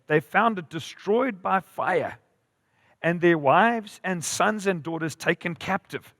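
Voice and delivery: measured, emphatic Bible reading; scripture reading. A narrator's reading. Preacher reading of Ziklag's fall, emphatic scripture reading. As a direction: read it out deliberately, weighting each phrase. Reads Bible story aloud.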